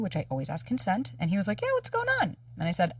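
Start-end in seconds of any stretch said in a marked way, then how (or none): 1.6-2.4 mimicking partner. Partner answering casually.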